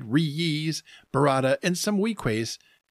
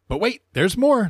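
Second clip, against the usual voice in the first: big excited sales pitch, higher and louder; infomercial pitchman; 7 semitones higher, 6 dB louder than usual. Pretend. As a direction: sell it like a late night TV ad. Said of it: "as seen on T V".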